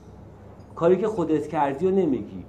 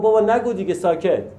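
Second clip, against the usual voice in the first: raised voice, higher and louder at first; mock an exasperated teacher's telling-off; imitated outburst, dropping on the last word; retold scolding shout; 4 semitones higher, 4 dB louder than usual. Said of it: "من داد زد".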